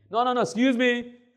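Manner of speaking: high, loud, insistent cut-in; Trump. Retold or imitated. Pastor refusing to let the American interrupt, loud high rebuff. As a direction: talk forcefully over someone interrupting. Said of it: "Porque me quería interrumpir".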